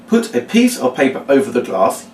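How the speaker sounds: measured read-out of an instruction; demonstrated first run-through; reading the words. Shown as a demonstration. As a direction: read it aloud clearly, step by step. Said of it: "just reading the words".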